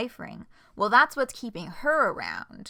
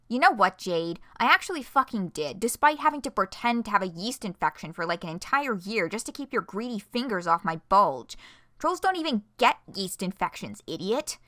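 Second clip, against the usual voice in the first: loud, heated comeback; angry retort; 5 dB louder than usual. Acted. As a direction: snap back in anger. Heated argument read aloud.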